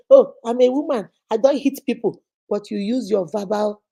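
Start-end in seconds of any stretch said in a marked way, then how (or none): 0.1-2.2 defensive claim. Acted. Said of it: "you might say".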